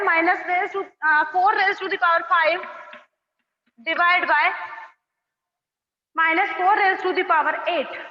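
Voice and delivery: slow, word by word, for copying; slow dictation. Shown as a demonstration. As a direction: spell it out slowly so they can write. Dictating the question for notes. (धीरे-धीरे लिखवाते हुए)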